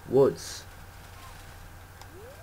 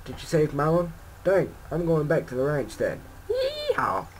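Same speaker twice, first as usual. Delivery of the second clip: higher-pitched put-on Southern voice; Talon's mock Southern accent; 5 semitones higher than usual. Talon heading back to the ranch, mock Southern accent with a high yeehaw. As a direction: play an excited country rancher with a Southern accent. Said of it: "So sorry if that's your accent".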